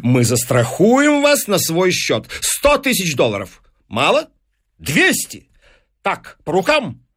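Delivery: high-pitched, excitable businessman, briefly flustered; eager deal-maker. Acted. Businessman offering insurance money to the professor, eager. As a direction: recover from the slip and clinch it. Voices Fines clinching the deal.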